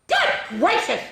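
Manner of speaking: high, gasping good gracious; startled high bird gasp; gasped surprise. Acted. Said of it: "gasped Maisie".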